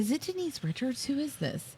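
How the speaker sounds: retold puzzlement. Retelling own puzzled reaction.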